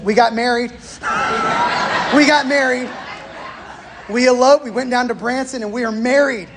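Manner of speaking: blurting it out through laughter, voice up; half-laughing, telling the stern father the news; laughing confession. Retold or imitated. To the father-in-law, explaining the elopement, laughing.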